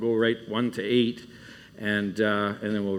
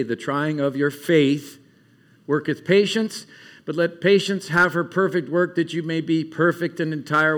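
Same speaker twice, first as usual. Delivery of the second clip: scripture reading. Real, not acted. Camp speaker reading on through James, emphatic then settling. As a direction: read out the verses with weight, easing down.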